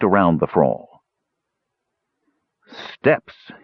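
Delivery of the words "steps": whispered, glum sigh of a word; unhappy. Acted. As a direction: dread the climb. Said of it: "he said unhappily".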